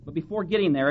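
normal talking voice

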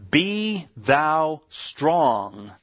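slow solemn charge. Acted. Preacher reading David's charge.

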